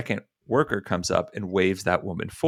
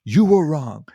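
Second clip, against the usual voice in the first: raised, emphatic rebuke; very loud; 5 semitones higher, 4 dB louder than usual. Retold or imitated. Old man backing the young woman, loud and firm. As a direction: imitate an old man loudly laying down a verdict. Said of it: "like, very loudly".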